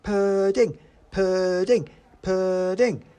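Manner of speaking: high, loud excited cheer; gleeful high-pitched shout; children shouting. A narrator's reading. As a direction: chant it like a crowd of children. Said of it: "shouted the children".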